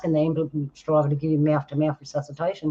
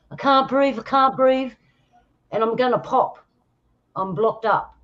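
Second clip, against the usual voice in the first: higher-pitched mock panic of a patient who can't breathe; panicking patient; 7 semitones higher, 3 dB louder than usual. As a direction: act out a man in a panic, voice raised in pitch. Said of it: "he's panicking".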